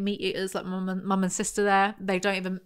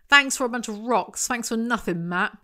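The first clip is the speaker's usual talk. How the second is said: mock-ungrateful, raised pitch; facetious; 3 semitones higher, 3 dB louder than usual. Reader mocks Matt's gift of rocks, facetious. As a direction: thank him with playful sarcasm. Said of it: "I'm being facetious".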